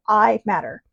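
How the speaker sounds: simple, sincere single statement; plain heartfelt affirmation. Shown as a demonstration. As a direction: say it once and mean it. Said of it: "No, just go".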